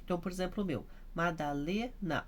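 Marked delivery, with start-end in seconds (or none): 1.1-2.3 "Madalena" with LE held long, NA dropping after; stress on LE. Shown as a demonstration. Teacher using her own name as example, "Madalena" stressed on LE. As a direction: lean on LE in "Madalena". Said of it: "o lê que é forte".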